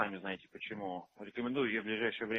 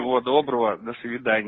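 yelled high goodbye; loud, high, fed up; shouting match; 14 semitones higher, 13 dB louder than usual. Real, not acted. Angry goodbye in quarrel.

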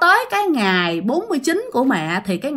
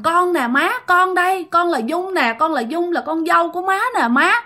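crying plea; 6 semitones higher than usual. Acted. Possessed woman insisting to grandma, crying. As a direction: sob out the plea to mother-in-law. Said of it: "Khóc quá trời khóc luôn".

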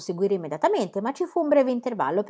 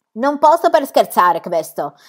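higher, louder, slow ringmaster in broken Italian; foreign circus director; 4 semitones higher, 7 dB louder, slower than usual. A narrator's reading. Circus director presents Adolf to the crowd, grand and foreign. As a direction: sell the strongman in a grand foreign showman voice.

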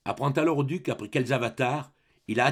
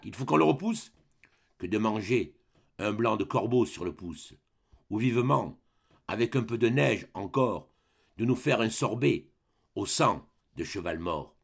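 proud grenadier declaiming the hardships of the march; a veteran grognard, stirring and defiant; old soldier's tirade. Acted. Old grenadier telling the duke of the march, proud declaiming.

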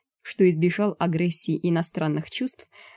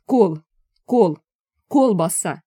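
«Кол! Кол!» loud and clipped, then «Колбаса!» falling; loud insistent correction; drilling the word; 6 dB louder, slower than usual. A narrator's reading. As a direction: drill the syllable like a teacher. Correcting the foreigner.

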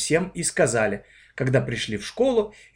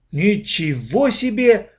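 a slow, loud amazed exclamation; exclaiming; 8 semitones higher, 4 dB louder, slower than usual. A narrator's reading. Vanka reacts to their story, exclaiming. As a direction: burst out in amazement. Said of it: "восклицал Ванька".

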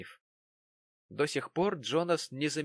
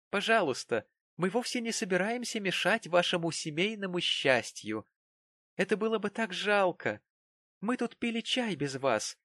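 higher, acid mock-politeness; sarcastic indignation; 7 semitones higher than usual. A narrator's reading. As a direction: needle him with sweet venom. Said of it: "мгновенно пришла в негодование".

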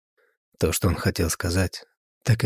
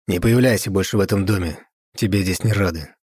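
thrown after her; 3 dB louder than usual. Acted. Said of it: "бросил ей вслед граф".

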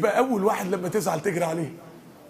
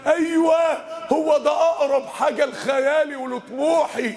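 joyful yes; 5 semitones higher than usual. Acted. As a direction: shout it like finding what you sought. Imagined joyful discovery. (صيحة فرح مفاجئة)

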